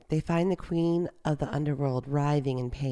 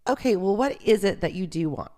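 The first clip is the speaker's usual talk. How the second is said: higher-pitched exasperated demand; somewhat agitated; 4 semitones higher, 4 dB louder than usual. A narrator's reading. Queen asks the demons what they want, somewhat agitated. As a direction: throw up your hands, mildly exasperated. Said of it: "somewhat agitated".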